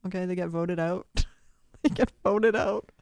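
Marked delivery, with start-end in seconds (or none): 1.8-2.9 loud, punchy declaration; emphatic repeat. Real, not acted. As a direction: hammer it home, much louder. Emphatic repeat after laughing.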